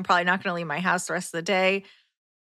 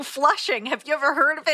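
mild mock yell, pitched up; retold shouting; 4 semitones higher than usual. Worker shouts after the customer who fled, mock shouting. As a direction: imitate an indignant shout, voice raised higher. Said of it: "start shouting".

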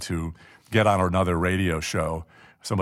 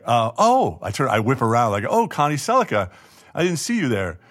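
startled; 3 semitones higher, 4 dB louder than usual. Retold or imitated. Caught by Connie, startled.

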